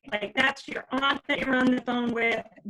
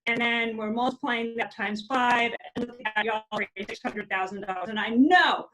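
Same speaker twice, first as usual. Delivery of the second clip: radio breaking up. Real, not acted. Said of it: "it sounds like you're breaking up".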